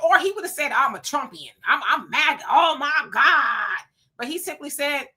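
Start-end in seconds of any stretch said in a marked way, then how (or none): 0.7-3.8 mock sob. Mock hypothetical MAGA statement.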